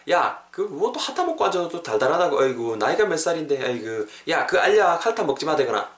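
fussing, grumbling telling-off; exasperated scolding. Acted. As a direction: chide someone too old for this. Acted scolding, asks how old they are. (나잇값 못 한다고 나무라는 말투)

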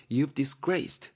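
drawn out with a rising end; slow echo of the phrase; slow repeat. Shown as a demonstration. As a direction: repeat it slowly as a check. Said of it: "가문이라고 생각하시면".

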